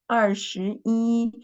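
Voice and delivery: 二十一 said slowly with 一 in the level first tone; model pronunciation. Shown as a demonstration. Teacher modelling a number for students, slow and careful. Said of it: "we should read it is, is original tone".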